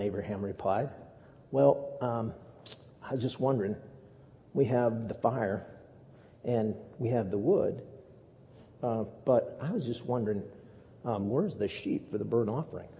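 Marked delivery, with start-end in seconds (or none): 1.5-12.9 very calm. Acted. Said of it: "Now, I said that very calmly".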